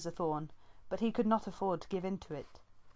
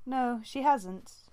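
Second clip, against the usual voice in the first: gentler voice; 6 semitones higher, 6 dB louder, much slower than usual. A narrator's reading. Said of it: "Leafpaw's gentler voice added".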